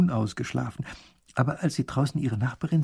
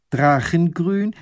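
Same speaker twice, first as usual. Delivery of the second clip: astonished question; 5 semitones higher, 7 dB louder, slower than usual. A narrator's reading. Lady repeats, astonished.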